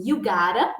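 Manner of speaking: "gotta" said as "gára" with a flapped t; gotta pronunciation. Shown as a demonstration. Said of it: "vai ficar basicamente assim". ("gotta" pronunciado "gára")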